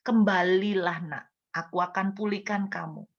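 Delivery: hushed tender invitation; gentle call. Retold or imitated. God's call, gently quoted.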